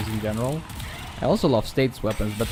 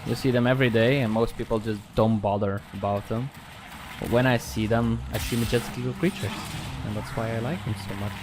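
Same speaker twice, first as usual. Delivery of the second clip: flat, monotone robot-like voice; subdued deadpan robot delivery; 4 dB quieter than usual. Real, not acted. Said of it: "the reason I sound like a robot".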